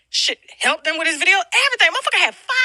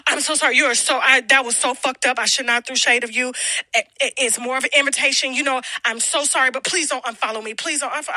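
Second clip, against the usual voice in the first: mock groveling apology; 6 semitones lower than usual. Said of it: "groveling apology retold".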